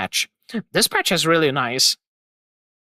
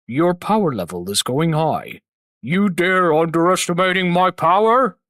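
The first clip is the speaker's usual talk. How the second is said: own take on a character; 2 semitones lower than usual. Shown as a demonstration. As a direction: proclaim it like an offended, all-powerful deity. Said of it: "then I made it into my own way".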